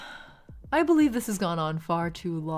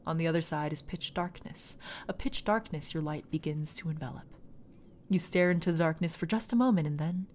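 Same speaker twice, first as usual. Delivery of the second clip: story narration. A narrator's reading. GM narrates the soul crossing.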